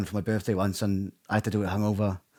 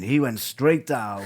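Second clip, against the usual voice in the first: drawn out through a laugh; slow laughing quote; much slower than usual. Retold or imitated. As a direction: laugh while slowly quoting. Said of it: "hear him in the background saying".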